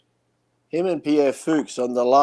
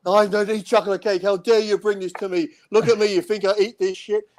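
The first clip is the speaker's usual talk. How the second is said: imitated yelling; 6 semitones higher than usual. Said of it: "He's yelling at this poor waiter".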